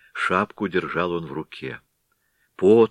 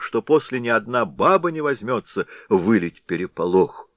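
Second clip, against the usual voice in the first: frightened pleading; 5 semitones higher, 4 dB louder than usual. Acted. Frightened villagers plead with the Head.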